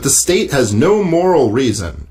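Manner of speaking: "moral" given the writer's emphasis; stress on MORAL. Shown as a demonstration. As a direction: lean on "moral" as read from the article. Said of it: "emphasis on moral, his not mine".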